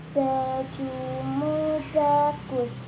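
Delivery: over enunciating. Shown as a demonstration. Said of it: "Coba diucapkan lagi".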